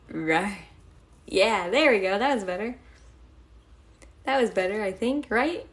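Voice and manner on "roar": a short, rising cute "Roar"; English-style roar. Pretend. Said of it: "the rar is my English voice".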